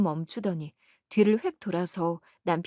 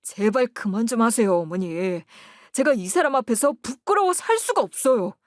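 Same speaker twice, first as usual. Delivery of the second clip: louder, exasperated outburst at mother; burst of anger; 3 semitones higher, 4 dB louder than usual. Acted. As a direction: son snaps at his mother, fed up. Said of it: "시어머니에게 버럭 화를 내는 거예요". (버럭 화내며)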